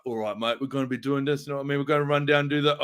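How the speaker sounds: put-on a lightly done, hammy English accent; bad English accent. Talking to the Butcher's co-star on set, in a bad English accent. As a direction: fake English accent, only a hint of it. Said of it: "I'm gonna put on a really bad English accent".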